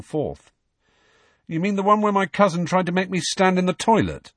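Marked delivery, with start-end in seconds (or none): 1.5-4.3 Harry voice. A narrator's reading.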